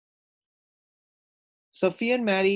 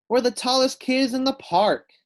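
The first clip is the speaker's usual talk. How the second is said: higher, loud triumphant call; proud cheer; 11 semitones higher, 6 dB louder than usual. Acted. Maddie cheering with Sophia at the top, high and loud. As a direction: crow it from the top of the wall.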